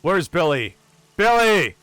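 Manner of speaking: captain's yell. Acted. Captain looking for Billy after the fight, yelling out. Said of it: "The captain will yell out".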